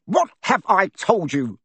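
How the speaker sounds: high, loud furious bellow; thundering. A narrator's reading. Uncle Vernon thunders at Harry, high and loud. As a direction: thunder it down at him. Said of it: "thundered his uncle".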